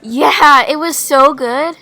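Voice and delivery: loud, high excited gush; gasp, then gush like a fan. Acted. Gushing over favourite singer.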